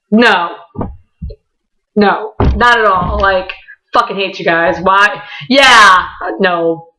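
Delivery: deadpan teasing sarcasm; sarcastically blowing someone off; sarcastic. Retold or imitated. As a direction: pile on the mock refusal. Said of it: "You're sarcastic".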